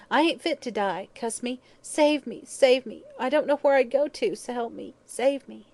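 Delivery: high, loud, desperate pleading; terrified wail. A narrator's reading. Dying hag clutching the doctor, wailing in terror. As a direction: plead wildly for rescue. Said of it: "she wailed".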